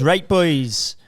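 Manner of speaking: put-on Welsh accent on the edge of laughter; attempted Welsh accent. Man imitating fitness guy's greeting, Welsh accent. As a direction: put on Welsh while trying not to laugh. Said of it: "the particular accent he's got is like".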